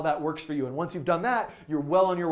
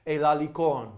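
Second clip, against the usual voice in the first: put-on terrible French accent. Live streamer reads a translated poem to viewers, terrible French accent. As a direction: read it out in bad French, word by word. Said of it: "with my terrible French accent".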